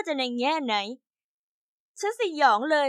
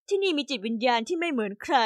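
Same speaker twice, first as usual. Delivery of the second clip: gentle coaxing. Acted. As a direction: coax her kindly, lightly voiced. Mom soothing angry daughter.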